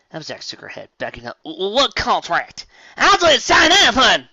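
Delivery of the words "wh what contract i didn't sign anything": high, loud stammered protest; panicked denial. Acted. Applejack denying contract, high loud protest. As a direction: protest in disbelief.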